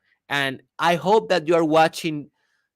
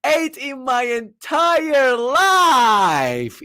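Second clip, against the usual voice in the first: mock crying; 12 semitones higher, 6 dB louder, slower than usual. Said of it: "almost crying, with the voice shaking".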